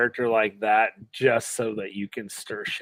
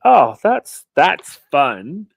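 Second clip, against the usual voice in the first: loud, high retold reaction; pleasant surprise; 3 semitones higher, 10 dB louder, much slower than usual. Fan reacting to a rare likeable moment, retold pleasant surprise. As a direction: exclaim it, caught by surprise.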